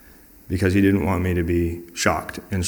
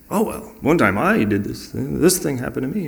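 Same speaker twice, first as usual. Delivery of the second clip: higher, eager mock storytelling; self-centred interjecting; 6 semitones higher than usual. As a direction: jump in to make it about yourself. Mimicking someone hijacking talk with own story.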